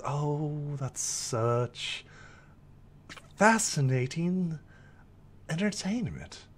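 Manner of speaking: lightly voiced fox, lilting questions; curious fox. Fox questions an entertaining pony, lightly lilting curiosity. Game master plays curious creature.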